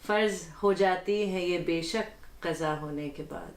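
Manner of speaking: measured Urdu poetry reading; ghazal recitation. Acted. Guest reads the host's ghazal before him, poetic recitation. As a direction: recite the couplet with deliberate phrasing.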